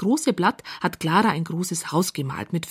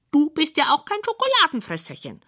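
high, cheeky creature retort; little creature voice; 8 semitones higher than usual. Acted. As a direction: tease her in a tiny high voice. Creatures answer Clara.

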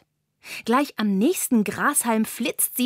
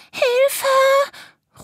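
much higher, louder panicked little spider; cry for help; 5 dB louder than usual. A narrator's reading. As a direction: scream as you slip. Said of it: "ruft sie". (hoher, lauter Hilferuf)

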